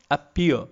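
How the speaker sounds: "appear" with the weight on its last syllable; stress on second syllable. Shown as a demonstration. Lecturer demonstrating an iambic word, stress on the end of "appear". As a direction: say "appear" unstressed first, then stressed. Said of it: "by the way I pronounce it".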